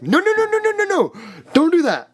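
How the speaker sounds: squeaky, loud panicked refusal; very high, loud, panicky no; frantic high-pitched no. Retold or imitated.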